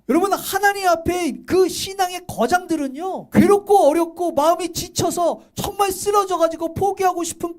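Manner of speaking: fervent exhortation; impassioned preaching. Real, not acted. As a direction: preach it high and insistent to the congregation. Preaches with force to congregation.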